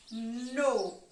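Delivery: "No" drawn out as one syllable; isolated, stretched "No"; syllable marking. Shown as a demonstration. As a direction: hold "No" on its own for counting. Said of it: "eu vou marcar a sílaba".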